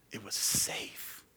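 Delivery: "It was safe" breathed slow and unvoiced; whispered repeat. Shown as a demonstration. Pastor echoing his point in a hush.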